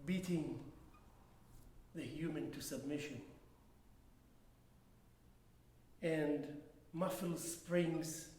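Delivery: slow, measured poem recital with long pauses; poetry reading. Acted. Poet reads own handwritten poem to an audience, measured recital. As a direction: recite deliberately, letting each phrase hang before the next.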